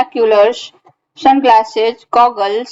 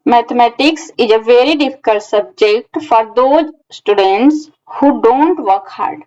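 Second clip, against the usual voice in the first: slow example reading; much slower than usual. Shown as a demonstration. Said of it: "पहला example हमारा है".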